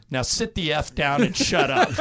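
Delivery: said through a laugh; laughing punchline. Retold or imitated. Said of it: "He goes".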